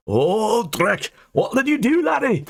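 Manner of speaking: very high, alarmed exclamation; exclaimed. Acted. Angus exclaims at Dane's blunder. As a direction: gasp it out in alarm. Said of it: "Angus exclaimed".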